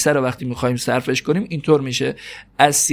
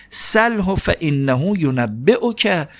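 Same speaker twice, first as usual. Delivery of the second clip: slow recitation; 3 semitones higher, much slower than usual. Shown as a demonstration. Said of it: "بعد این سل فعل امره".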